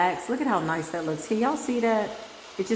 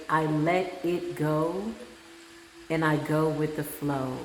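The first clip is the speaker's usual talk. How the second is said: higher self; 3 semitones lower than usual. Retold or imitated. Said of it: "I just heard my higher self say".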